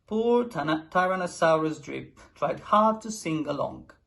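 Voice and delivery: ordinary delivery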